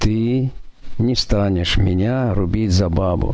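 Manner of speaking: plain reading voice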